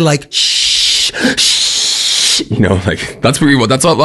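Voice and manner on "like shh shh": put-on a polite little shush at noisy kids. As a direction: hush them gently through the teeth. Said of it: "I had tried with a bit of".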